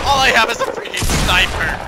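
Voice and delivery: high furious yell; frustrated yell. Real, not acted. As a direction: scream it out in panic. Cornered by enemy.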